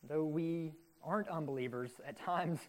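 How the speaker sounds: sincere, subdued public prayer. Real, not acted. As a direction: pray aloud on behalf of the congregation, evenly paced. Leads a closing prayer.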